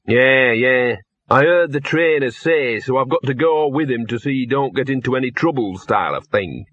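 a streetwise dog's voice, lightly put on; scruffy talking dog. The dog tells Victor he must go along, in a streetwise dog voice. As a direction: talk like a cynical mongrel who knows the angles. Gaspode's character voice.

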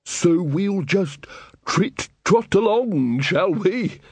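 high, slow singsong; singsong bursar. Acted. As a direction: trill it out dottily.

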